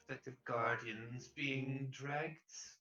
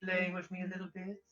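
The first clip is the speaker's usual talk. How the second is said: teasing lady voice; 4 semitones higher, faster than usual. Acted. Door figure coaxes the boys.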